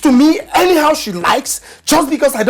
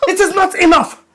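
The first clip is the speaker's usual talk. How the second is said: raised, repeated protest; husband snapping back at his wife; angry outburst; 5 semitones higher than usual. Acted. Husband shouting in marital quarrel.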